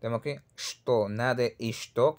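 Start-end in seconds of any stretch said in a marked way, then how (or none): 1.1-2.2 isto with an added "i" before the sh-t; wrong pronunciation. Shown as a demonstration. Teacher warning against a Portuguese-style isto, wrong-way demo. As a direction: say isto Lusophone-style, "ishto". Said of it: "como de un portugués".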